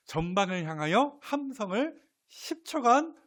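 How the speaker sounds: high-pitched military command; acted battle signal. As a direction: call it out like a commander ordering fire. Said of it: "이런 식으로 신호를 주었을 것입니다".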